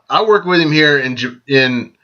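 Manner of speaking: hiccup mid-sentence; words broken by a hiccup. Real, not acted. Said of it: "I just hiccuped there".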